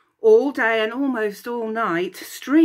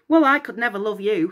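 snapping; 3 dB louder than usual. Acted. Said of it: "snapped Narcissus".

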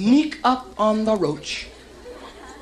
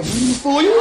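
cocky roach voice; 7 semitones higher, 5 dB louder than usual. Pretend. Roach talks back.

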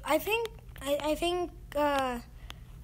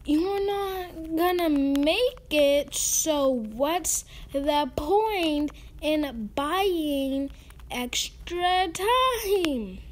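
mock crying; much slower than usual. Ranting at a game player.

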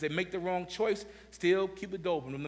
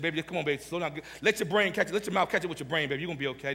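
gentle mother; faster than usual. Retold or imitated. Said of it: "she said".

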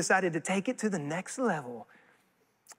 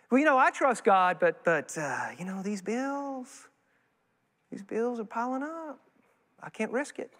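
hesitant believer. Retold or imitated. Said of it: "imitating a hesitant believer, dropping".

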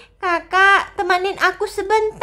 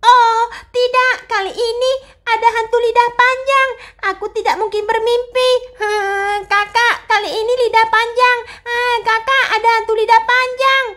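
frightened cry; 4 semitones higher than usual. Acted. Mia sees long-tongue ghost.

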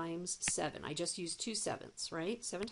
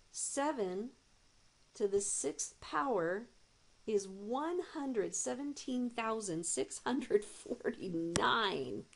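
higher, slow, wonder in the voice; amazed reveal; 4 semitones higher, slower than usual. Shown as a demonstration. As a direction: unveil the big number with awe. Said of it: "Check that out".

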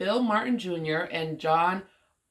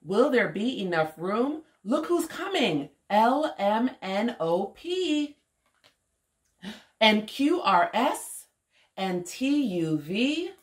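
put-on lilting, measured story reading for a child; picture-book read-aloud; 2 semitones higher, slower than usual. A narrator's reading. Woman reading an alphabet story to young Omari, lilting read-aloud. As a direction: read it out rhythmically with playful swoops.

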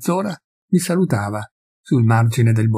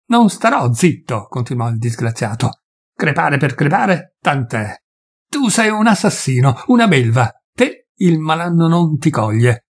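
mild anger; 3 semitones higher than usual. Acted. Peasant's threatening tirade.

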